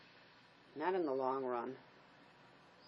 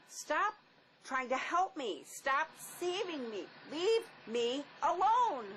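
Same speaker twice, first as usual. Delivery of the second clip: anguished building cry; desperate outburst; 5 semitones higher, slower than usual. Acted. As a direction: plead and push away at once. She refuses to be saved.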